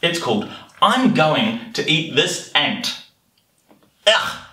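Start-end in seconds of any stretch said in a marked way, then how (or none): 4.1-4.5 short grossed-out "ugh"; a quick noise of disgust. Acted. Reacting with disgust to eating ants.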